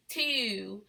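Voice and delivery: "To" said with a U-like vowel, like "tyoo"; "To" drawn out as a mock-Baltimore "tew"; Baltimore O sound. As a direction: imitate Baltimore, fronting the O in "To" toward "ew". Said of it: "with O's sound like a U".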